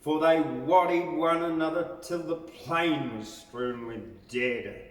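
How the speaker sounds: rhythmic ballad reading, swelling to a loud finish; lilting verse read aloud, building to a galloping climax; poem recitation. Acted. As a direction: recite it like a campfire bush ballad.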